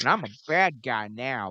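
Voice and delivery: put-on old grandpa voice with mushy mouth. Mocking a wrestler's bad promo: Jungle Boy Jack Perry impression. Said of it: "kinda did sound like an old grandpa with mush in his mouth".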